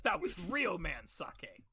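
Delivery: slow, emphatic macho bragging; chest-pounding boast. Acted. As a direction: draw it out like a proud tough guy.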